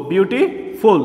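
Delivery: "বিউটিফুল" with a break before its last syllable; split into parts. Shown as a demonstration. Teacher repeating the parts for students, "বিউটিফুল" split before the ending. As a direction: separate the ending of "বিউটিফুল" with a short pause. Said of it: "এখানে হচ্ছে তিনটা".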